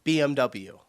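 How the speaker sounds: English letter names, bee-em-double-you for "B M W"; English pronunciation. Shown as a demonstration. Reacting viewer gives the English "B M W", ending in double-you. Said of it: "In English, people say".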